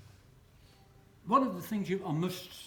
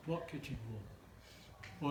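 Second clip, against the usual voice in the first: clueless husband; 3 semitones lower, 8 dB quieter, much slower than usual. Retold or imitated. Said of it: "What she finished up getting was".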